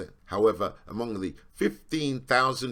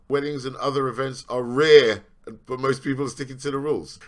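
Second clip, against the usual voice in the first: louder, scornful reading of the claim; sarcastic read; 6 dB louder than usual. Shown as a demonstration. Reading the news claim aloud with open scorn. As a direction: read it out as if it's obviously false. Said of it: "How's it rare?".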